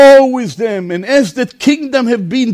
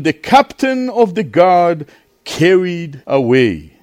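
scripture reading. A narrator's reading. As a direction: draw the verses out for a congregation.

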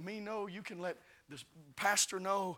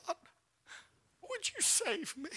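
pleading prayer; 12 semitones higher than usual. Retold or imitated. Woman praying out loud.

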